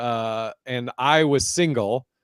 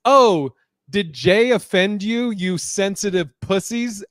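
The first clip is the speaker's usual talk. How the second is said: mock yell; 5 semitones higher, 4 dB louder, slower than usual. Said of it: "yelling over the crowd".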